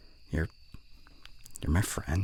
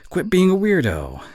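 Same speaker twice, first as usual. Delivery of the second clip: bully character; 3 dB louder than usual. Acted. Reading the yandere bully script in character, taunting. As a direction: play the bully in earnest. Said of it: "when I get into character".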